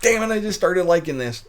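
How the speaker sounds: high, loud mock wail of a fan; imitating an upset viewer; mock freak-out. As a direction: whine it like a let-down viewer. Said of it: "don't start freaking out going like".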